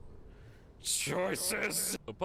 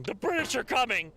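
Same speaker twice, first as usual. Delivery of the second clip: higher, louder horseback cry; mock yell; 8 semitones higher, 5 dB louder than usual. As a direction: call out like a town crier.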